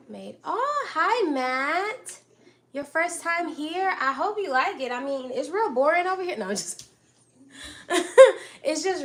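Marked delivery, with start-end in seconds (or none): 0.4-4.8 bright high hello to a newcomer; light up as Matt joins; excited greeting. Real, not acted. Streamer happily greeting new viewer Matt, high and excited. 7.5-8.6 sudden loud high laugh; burst of laughter. Real, not acted. Cook laughing at her own joke about being boring, loud burst.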